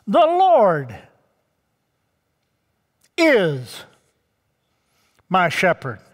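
"is" set apart by long pauses; stress on "is". Shown as a demonstration. Preacher quoting David's psalm, solemn weight on "is". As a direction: pause before and after "is", letting it fall slowly. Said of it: "You notice that little word?".

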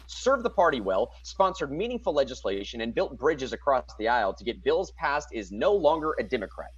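lightly neutral newscaster read; news reporter voice. Acted. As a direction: read it straight like a reporter, little inflection. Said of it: "I tried to read that as my best news reporter voice".

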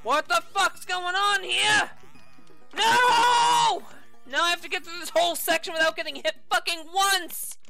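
frustrated shout at the game; raging gamer. Real, not acted. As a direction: yell at the screen in frustration.

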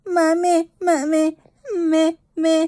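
imitating a whimpering baby. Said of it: "Pag umiiyak ka".

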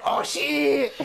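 drawn-out mock alarm, Japanese accent; horrible Japanese accent. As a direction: stretch it in a fake Japanese accent. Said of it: "doing a horrible Japanese accent".

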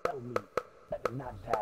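Booker T impression. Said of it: "I am Booker T".

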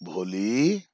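calling the name gently and fondly; lovingly. Retold or imitated. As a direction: say her name like a kind teacher. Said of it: "उसने बड़े प्यार से बोला उसको". (प्यार से पुकारना)

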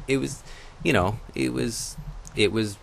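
laughing. Real, not acted. Laughing off the accident.

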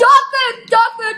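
excited groan. Real, not acted. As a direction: blurt it out in dismay. Dreaded dog food flavor.

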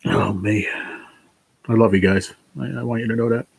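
fighting back tears to get the words out; real emotion breaking through mid-sentence; choked up. Real, not acted. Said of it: "I'm getting emotional already".

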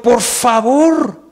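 slow, drawn-out plea; slow pleading please; pleading angel. Acted. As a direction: stretch out the please, begging him. Angels urging Lot to leave.

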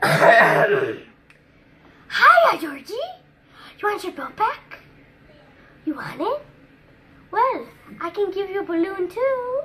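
put-on a kid's go at Pennywise luring Georgie; Pennywise, normal take. Shown as a demonstration. Pennywise luring Georgie to the drain, creepy clown voice. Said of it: "I'll do it normally".

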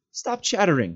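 amused and annoyed. Acted. Frodo cutting off Sam's chatter, amused and annoyed. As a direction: tell him off, amused. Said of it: "amused and annoyed".

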